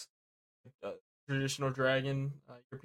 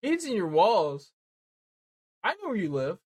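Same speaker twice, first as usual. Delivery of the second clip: creepy stalker threat; 5 semitones higher, 5 dB louder than usual. Pretend. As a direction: draw it out like a horror caller.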